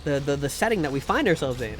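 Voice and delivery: lightly voiced earnest GM. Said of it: "he'd be like".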